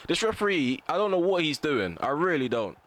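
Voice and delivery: baffled anger at the referee; agitated. Real, not acted. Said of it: "I'm getting very agitated".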